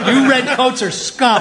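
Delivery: put-on American accent. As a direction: say it as a defiant American rebel. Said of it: "can you do a convincing American accent".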